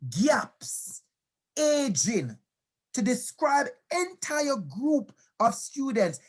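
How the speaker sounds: slow, emphatic reading of a quotation; measured presentation reading with deliberate pauses; formal read-aloud. Acted. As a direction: read it out slowly, weighing each term. Reads out a quotation.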